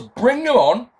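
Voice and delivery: high mock yell; imitated yell. Retelling Jones yelling three times, mock shouting. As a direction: yell it like a fired-up hard man. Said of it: "He yells".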